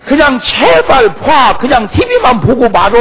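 loud high plea, slow at first; exasperated shout. Acted. Preacher begging wives to just watch TV, loud exasperated shout. Preacher pleading with congregation's husbands.

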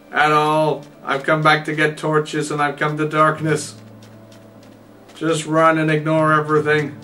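scared rush, urging yourself to run; breathless fright. Real, not acted. Fleeing spiders in the dark.

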